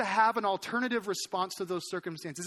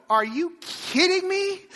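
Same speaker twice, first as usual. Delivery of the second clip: high, drawn-out cry of disbelief; exasperated yell; 7 semitones higher, 4 dB louder, slower than usual. Retold or imitated. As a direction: throw it out loud and stretched, indignant. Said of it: "what made me yell that".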